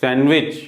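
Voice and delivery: सैंडविच as "san-wich"; silent D. Shown as a demonstration. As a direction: drop the d in सैंडविच. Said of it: "बल्कि सैंडविच". (सैंडविच में डी silent)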